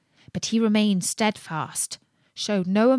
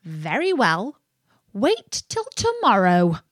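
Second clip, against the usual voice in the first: threatening imp. Acted. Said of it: "said the imp".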